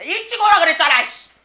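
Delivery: high, explosive shouted rebuke; angry scolding. Acted. Teacher acting out scolding someone for lateness, angry shout.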